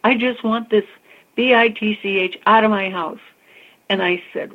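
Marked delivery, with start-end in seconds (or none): 0.0-3.2 higher, insistent mock yell; mildly heated, raised-pitch protest; retold angry yell. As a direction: imitate his angry denial without fully shouting. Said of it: "he got really angry and he just yelled".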